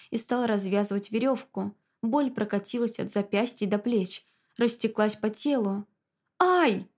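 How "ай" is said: a high, loud yelp of pain; short pained cry; sharp cry of pain. A narrator's reading. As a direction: yelp as the knot is yanked. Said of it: "вскрикнула я".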